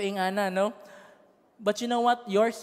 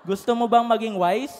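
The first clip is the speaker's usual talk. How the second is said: shouted; 2 semitones higher, 6 dB louder than usual. Real, not acted. Preacher repeats his question to the congregation as a shout. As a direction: hurl the question at the crowd. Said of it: "Gusto mo maging wise?".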